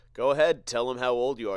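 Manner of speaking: loud, pushy mom voice; mother's prod. Retold or imitated. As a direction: nudge her on, loud and bossy. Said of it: "the mother ... says".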